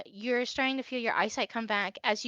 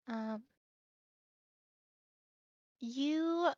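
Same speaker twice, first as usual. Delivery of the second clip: hushed, much softer storyteller voice; eerie narration; 6 dB quieter than usual. Acted. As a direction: pull them into a dark, cold dream.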